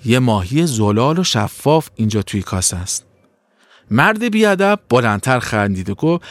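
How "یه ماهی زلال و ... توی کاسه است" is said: kindly. Acted. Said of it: "با مهربونی جواب داد".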